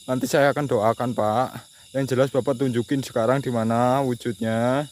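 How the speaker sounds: loud, firm demand; loud demand for a ghost to show itself; calling out. Real, not acted. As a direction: order the spirit to show itself. Demanding the spirit appear.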